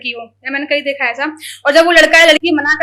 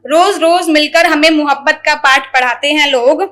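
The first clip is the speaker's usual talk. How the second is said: wistful, measured shayari; poetry recital; 3 dB louder than usual. Acted. About people who fall silent, wistful shayari recital. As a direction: linger on the repeated lines.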